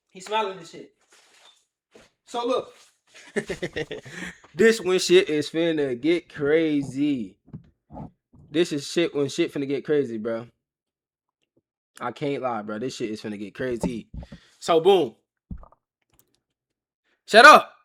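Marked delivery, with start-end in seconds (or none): 2.3-7.4 slow dramatic build. Real, not acted. Hyping the story's turning point. 17.3-17.7 sudden shout. Real, not acted. Sudden outburst mid-story.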